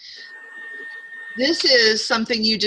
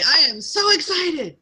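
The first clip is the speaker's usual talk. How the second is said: bubbly demo; 7 semitones higher than usual. Shown as a demonstration. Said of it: "say that in the shower tomorrow morning".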